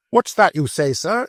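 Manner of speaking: high, loud furious challenge; a man shaking with passion; trembling with rage. Acted. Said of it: "trembling all over with passion".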